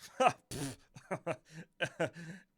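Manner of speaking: a loud, bright burst of laughter at herself. Real, not acted. Admitting to viewers she knows little history, laughing loudly. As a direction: laugh it off, caught out by her own brag.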